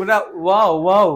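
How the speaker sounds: ওয়াও opened up as "wa-o"; corrected wow. Shown as a demonstration. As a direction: stress the open "wa" in ওয়াও. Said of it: "তাও তো ওয়া আসতেছে".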